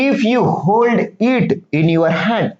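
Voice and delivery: each English word read slowly and clearly to pupils; slow reading of the story. Shown as a demonstration. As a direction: read the line word by word for the class. Teacher reads story text slowly. (मुलांना सावकाश वाचून दाखवणे)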